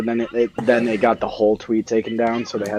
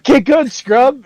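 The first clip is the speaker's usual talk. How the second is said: high slow taunting yell; mock taunt; 13 semitones higher, 6 dB louder, slower than usual. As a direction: yell it like a gamer trash-talking. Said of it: "was like".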